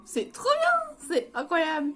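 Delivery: high, very slow drawn-out catchphrase; Cassandra's catchphrase. Retold or imitated. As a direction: stretch it out way up high like a cartoon. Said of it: "Cassandra qui répète quarante mille fois le mot".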